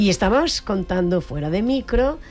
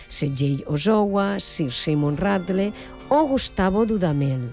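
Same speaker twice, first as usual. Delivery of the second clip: measured presenter's read, emphatic phrase openings; radio introduction. Acted. Radio host presenting a celebrated trumpeter to listeners, announcer style. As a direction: build up the guest with deliberate pauses.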